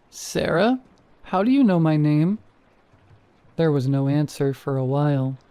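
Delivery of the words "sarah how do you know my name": high, startled question; suddenly frightened, pitched up; alarmed. Acted. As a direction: jolt of fear in the voice.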